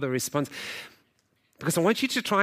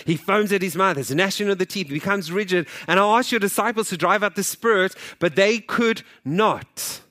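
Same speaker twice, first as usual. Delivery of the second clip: pleading father; 4 semitones higher, 4 dB louder than usual. Acted. Father pleading to Jesus, scripture read.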